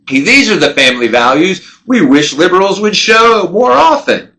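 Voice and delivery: a hint of a sunny press statement; hypothetical upbeat statement. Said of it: "They could have come out and said".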